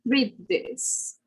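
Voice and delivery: "Read this" with th turned to a d. Shown as a demonstration. Teacher giving an example, "Read this" with TH as D. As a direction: say "this" as "dis" after "Read". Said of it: "more like a D sound".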